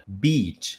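"beach" with a long open "ee"; "beach" with a long, open ee sound; long beach vowel. Shown as a demonstration. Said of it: "a gente abre mais a boca".

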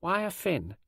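put-on high-pitched stern small boy; solemn little boy's challenge. A narrator's reading. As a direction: ask it sternly as a child. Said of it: "said sternly".

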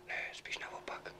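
very soft, slow whisper. Acted. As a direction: barely breathe the words. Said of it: "Tak proč vlastně šeptáme?".

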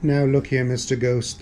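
mildly firm retort; snapped back. Acted. Pink Panther stands up to the ghost, mildly snapping back. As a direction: put the ghost in his place, understated. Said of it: "the Pink Panther snapped back".

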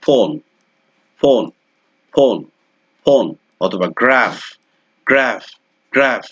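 ফোন, গ্রাফ with a clear f; ph examples. Shown as a demonstration. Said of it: "example যদি আমি দেই".

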